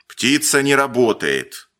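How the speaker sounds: ordinary delivery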